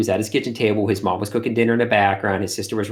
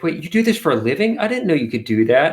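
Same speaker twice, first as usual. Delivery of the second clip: put-on amazed kid; 6 semitones higher, 4 dB louder than usual. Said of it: "he's like".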